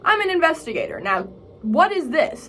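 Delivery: mildly put-on curious newcomer; playacted investigator. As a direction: lightly act out a questioning investigator. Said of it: "acts like an investigator".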